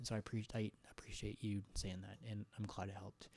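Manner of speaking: soft ASMR whisper; whispered thanks to chat. Real, not acted.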